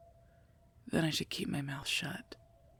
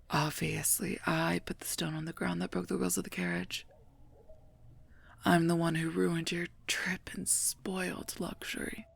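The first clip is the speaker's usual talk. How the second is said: biting mock apology, leaning on the blame; sarcastic. Guard mock-apologises to a royal over the broken carriage, sarcastic. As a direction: pretend to take the blame, dripping sarcasm.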